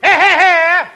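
high, loud hey hey hey; loud protest. Acted. Costello protesting the professor's insult, high and loud. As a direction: cut him off with a sharp outcry.

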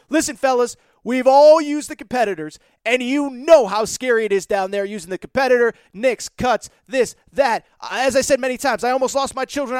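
bouncy, hyped sponsor read with punchy plugs. Acted. Podcast host pitching the sponsor to listeners, hyped ad read. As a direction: sell it to the fellas like a podcast host.

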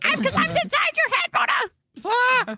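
high, slow, eerie voice in your head; conscience whispering inside head. Pretend. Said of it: "Why do you sound like my inner thoughts?".

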